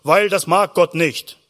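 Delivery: mildly stern, measured scolding; admonishing priests. Acted. Preacher mimics priests lecturing worried people, mildly stern. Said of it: "Die Priester haben immer gesagt".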